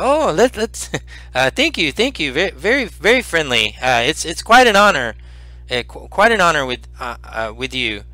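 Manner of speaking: put-on high old man, slightly chuckling; flustered little old man, mildly amused; laugh in voice. Old healer thanking a hugger, slight laugh in his voice. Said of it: "kinda laughs a little bit in his voice".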